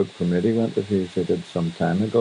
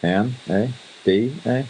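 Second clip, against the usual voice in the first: Canadian eh; 4 semitones higher, slower than usual. Pretend. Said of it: "how do you spell Canada".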